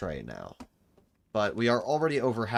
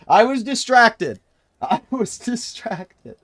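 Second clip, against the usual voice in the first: whiny protest; 12 semitones higher, 13 dB louder, slower than usual. Real, not acted. Protesting the failed run.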